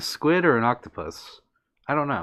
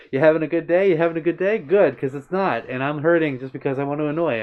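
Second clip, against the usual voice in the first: mock yelling neck; 3 semitones higher than usual. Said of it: "my neck yelling at me".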